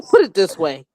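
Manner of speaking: a hint of a New York twang; New York accent. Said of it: "In her New York accent".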